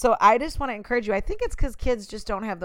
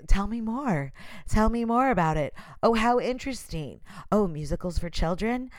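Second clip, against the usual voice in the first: creepy fake interest. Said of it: "It's like Psycho".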